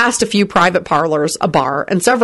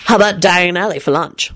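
hopeful. A narrator's reading. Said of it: "Lupin said hopefully".

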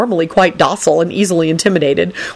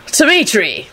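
higher, happy greeting; pleased; 4 semitones higher, slower than usual. A narrator's reading. Dazed Lupin seeing Dragomir, pleased. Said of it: "said in a pleased voice".

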